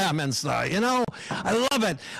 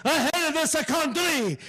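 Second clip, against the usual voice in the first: put-on higher, slow, gruffly offended Italian accent; grumpy Italian uncle; 6 semitones higher, slower than usual. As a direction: grumble like an old Italian uncle who hates it all. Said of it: "he comes back in ten minutes saying".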